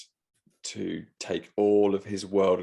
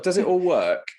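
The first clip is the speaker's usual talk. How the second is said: high nervous question; 10 semitones higher, 7 dB louder than usual. Retold or imitated. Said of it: "I was like".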